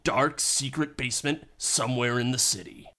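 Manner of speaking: ordinary talk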